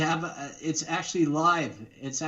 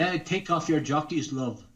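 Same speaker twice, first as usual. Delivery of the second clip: put-on Irish accent. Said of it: "That's my Irish accent".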